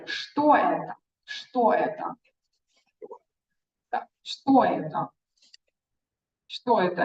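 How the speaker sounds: что это said as shto eta, falling; Russian model phrase. Shown as a demonstration. Teacher modelling the question for a student. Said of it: "teacher models question".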